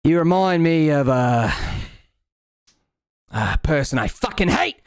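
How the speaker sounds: lightly voiced, spiteful rat; a hint of a bitter little rat. Rat to the cat girl, lightly voiced spite. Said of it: "and he says".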